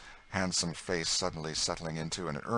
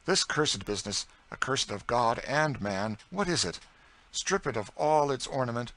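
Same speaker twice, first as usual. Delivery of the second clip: a lightly voiced Southern gentleman turned serious; earnest gentleman; 6 semitones higher, 5 dB louder than usual. A narrator's reading. St. Clair earnestly condemns slavery to his astonished cousin, serious. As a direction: speak with sudden conviction. Augustine's bitter indictment.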